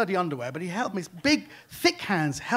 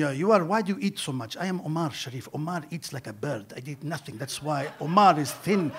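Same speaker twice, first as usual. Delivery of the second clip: Omar Sharif impression; 3 semitones lower than usual. Omar Sharif mocking the comic's weight, Egyptian accent rising to a shout. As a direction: scold him about eating in a light Egyptian accent. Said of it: "he's a very humorless man".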